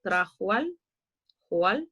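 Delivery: "trajual" and "joal" with the vowels run together; sinalefa. Shown as a demonstration. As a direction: glide "ual" and "oal" as one syllable. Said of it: "hay otra sinalefa marcada".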